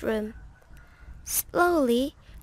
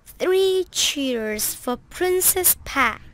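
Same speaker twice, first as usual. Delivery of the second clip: shout; 5 dB louder than usual. Acted. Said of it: "shouted Fred".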